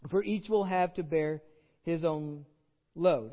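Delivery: measured pulpit reading voice; scripture reading. Acted. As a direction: read the verse out with weight. Reads scripture passage aloud.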